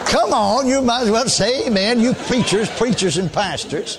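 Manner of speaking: urging the crowd. Real, not acted.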